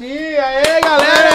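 loud, high cheering welcome; excited cheer. Real, not acted. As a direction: shout a hype greeting to the crowd. (saudação animada e alta)

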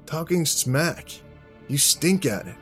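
high-pitched, mocking put-down; taunting. Jack explaining his insult to the man, taunting.

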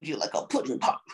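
low, muffled pudding-pop voice; Bill Cosby impression. Showing how to do Cosby, low mouthy impression. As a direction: mumble it low with the mouth held. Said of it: "impersonating Bill Cosby".

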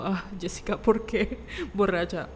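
mock mom. Mock mom scolding drunk daughter.

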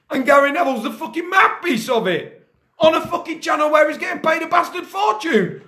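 rising angry rant, pitch climbing; furious football rant; raging rant. Real, not acted. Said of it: "I'm fucking raging".

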